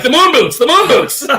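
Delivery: giggling mock announcement; laughing mockery. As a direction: squeal it through laughter at the outfit. Mocking her snow boots, laughing.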